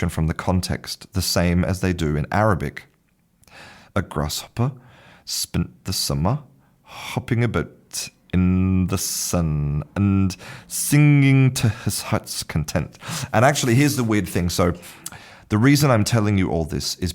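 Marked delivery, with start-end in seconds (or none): 3.9-13.0 slow, deliberate reading, phrase by phrase; halting read-aloud. Shown as a demonstration. Teacher showing learners that vowel-less text can be read, halting read-aloud. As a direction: sound it out slowly, stretching the words.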